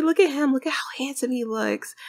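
mother gushing proudly over her grown-up son; excited gushing. Real, not acted. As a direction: burst out with pride at him.

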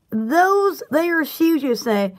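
slow drawled Southern phrase; Southern accent. Shown as a demonstration. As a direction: drawl it out slowly. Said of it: "it really brings out the accent more".

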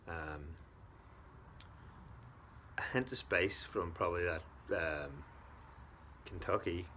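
speaking with pipe stem; talking around pipe. Real, not acted. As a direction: pipe clenched in mouth. Seen 0: Pipe stem held between lips throughout the labelled words.

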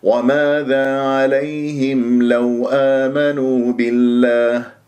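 slow, smooth chant at speaking pitch; unforced, drawn-out tajweed phrase; correct inviting recitation. Shown as a demonstration. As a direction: invite them gently, without shouting. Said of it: "بهذه الطريقة".

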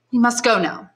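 a lady taking her leave; lightly voiced society lady; Madame de Villefort voice.

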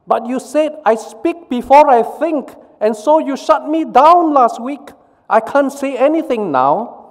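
very high petulant retort; sulky mouth retort. Acted. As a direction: talk back like a sulking child, very high. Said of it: "retorted the mouth".

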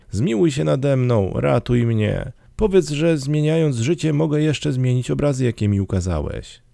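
high-pitched, urgent entreaty; begging. A narrator's reading. Scrooge begs the phantom for mercy, high urgent pleading. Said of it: "błagał Scrooge".

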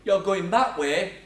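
slow, firm officer's order; slowed-down mock police directive; police command. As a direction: draw out the instruction like a cop. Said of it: "a police officer says to you".

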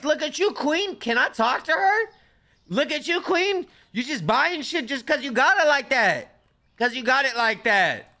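high, loud teasing praise; hype voice. Pretend. Streamer cheering the customer on, high and loud.

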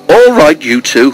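high, loud opening, easing down; amused. A narrator's reading. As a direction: call the pair off with amusement. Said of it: "laughed Edward".

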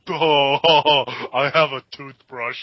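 mock goofy voice with a drawn-out "oh"; goofy smiling dandy. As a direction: play the grinning simpleton lightly. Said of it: "goofy smile he had".

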